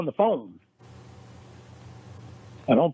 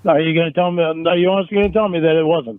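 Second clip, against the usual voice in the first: louder, pressing accusation; heated demand; 5 dB louder than usual. Acted. Boyfriend confronting Jamie in the roleplay, angry and raised. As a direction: push him for an answer, voice raised. In-character quarrel over texts.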